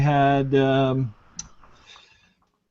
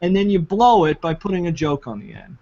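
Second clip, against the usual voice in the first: mocking whiny critic; 4 semitones higher than usual.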